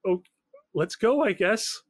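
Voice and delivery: lightly acted nervous accomplice; hesitant Angie. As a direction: drag it out uneasily. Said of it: "and he's like".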